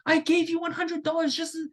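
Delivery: high-pitched, insistent mock protest; imitated heated insistence; retold arguing. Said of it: "it starts becoming an argument".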